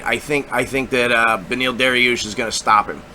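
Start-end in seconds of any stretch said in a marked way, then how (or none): none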